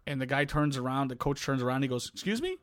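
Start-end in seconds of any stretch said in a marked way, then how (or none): 2.1-2.6 baffled. Retold or imitated. Coach baffled by umpire's remark.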